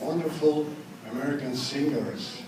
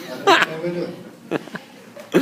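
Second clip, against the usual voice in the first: slow, laughing, louder shrug; slow, amused, louder shrug; 3 semitones higher, 6 dB louder, slower than usual. Real, not acted. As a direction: laugh it off slowly. Laughing at own accent.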